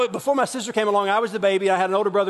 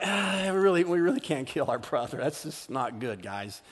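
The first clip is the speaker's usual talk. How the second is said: hesitant Reuben; 3 semitones lower than usual. Retold or imitated. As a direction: talk the brothers down gently. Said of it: "he was like".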